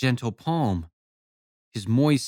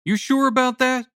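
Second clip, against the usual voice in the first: mock disbelief; 13 semitones higher, 4 dB louder than usual. A narrator's reading. Jonas keeps up mock surprise.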